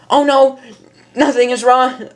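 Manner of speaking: put-on voice hiding her own; disguised voice. Shown as a demonstration. Rainbow disguising her voice to Miss Cake, put-on voice. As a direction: fake a different voice. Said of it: "in her normal voice".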